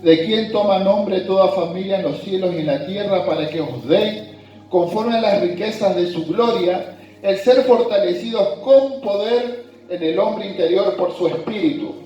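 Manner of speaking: measured, deliberate Bible reading to the congregation; scripture reading. Acted. Pastor reading Ephesians to his congregation, scripture reading voice. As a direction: read the verses out as holy text. Reads Ephesians passage aloud.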